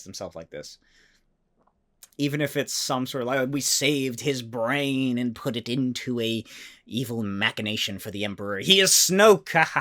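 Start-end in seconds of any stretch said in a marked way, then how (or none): 3.5-9.8 lightly voiced gloating Star Wars villain; mock evil villain. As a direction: ham it up like a cartoon bad guy gloating. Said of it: "you know, something like that".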